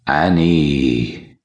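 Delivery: eerie whisper from the mist. A narrator's reading. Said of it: "A voice, whispering".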